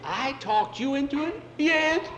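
put-on squabbling boys; indignant quarrel. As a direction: throw the blame back, loudly. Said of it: "Now we're fighting".

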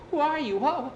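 high, loud and astonished; amazed, pitched well up; startled questioning. Acted. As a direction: demand it in acted shock. Startled boy questions stranger.

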